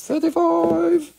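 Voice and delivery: high, slow and drawn out; announcer call. Acted. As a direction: call the price like an auctioneer. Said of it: "Was that too fast".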